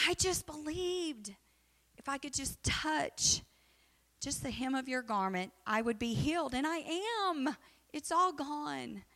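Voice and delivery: the healed woman telling Jesus, gently thrilled; excited woman. Retold or imitated. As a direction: let her joy show, a touch high. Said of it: "She's just so excited".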